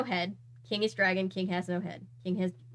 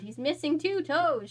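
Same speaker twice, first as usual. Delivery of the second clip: shocked realization; 7 semitones higher, 4 dB louder than usual. A narrator's reading.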